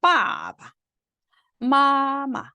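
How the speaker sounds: 빠바 and 마마 high, second syllable short, weak; strong first syllable in 빠바, 마마, light second; neutral tone ending. Shown as a demonstration. Teacher reading family words for students, weak short endings on 빠바, 마마. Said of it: "경성은 약하게 짧게 읽었죠".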